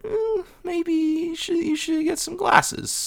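high, slow, careful hedging; tentative suggestion. Retold or imitated. Deborah gently suggesting glasses to Marie, tentative. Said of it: "tries to bring up the idea".

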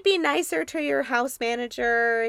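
high-pitched, insistent scolding voice; Jennifer Tilly impression. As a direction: imitate an actress's distinctive high voice. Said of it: "what a voice on her".

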